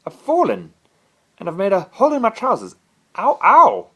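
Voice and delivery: high, loud, fast wailing complaint; whining boy. A narrator's reading. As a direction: bawl like a hurt, sulky boy. Boy fallen, wailing about trousers.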